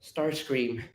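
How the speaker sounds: soft call of recognition; hushed, gentle call to an old friend; Alexis. Acted. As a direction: say the name softly, falling away. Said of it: "And Alexis goes".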